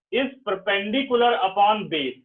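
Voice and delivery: spelled out slowly for dictation; slow and deliberate. Shown as a demonstration. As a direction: dictate each word slowly. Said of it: "तो ऐसे shortcut नहीं लिखना".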